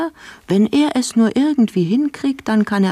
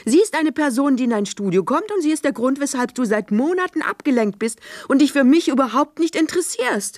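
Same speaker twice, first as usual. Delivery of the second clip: accusing, higher pitch; 6 semitones higher than usual. Acted. Accusing quarrel.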